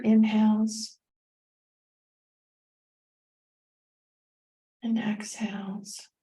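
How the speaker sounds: calm meditation guide with long pauses; unhurried, guiding the listener through each breath; guided meditation. Real, not acted.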